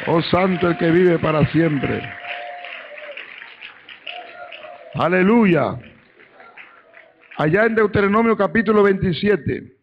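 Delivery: rousing pulpit delivery, carried into the scripture reference; fired-up preaching. Acted. Preacher praising God before announcing the next passage, fired-up preaching. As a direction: exclaim praise to the congregation.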